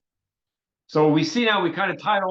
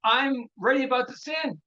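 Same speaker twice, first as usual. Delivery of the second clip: pleading; 6 semitones higher than usual. Retold or imitated. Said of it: "he was basically saying".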